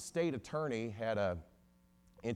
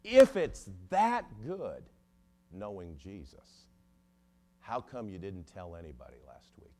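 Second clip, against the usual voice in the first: pastor's challenge; 2 semitones lower, 6 dB louder than usual. Retold or imitated. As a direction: imitate a preacher's booming setup and hushed punchline. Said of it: "then the pastor said".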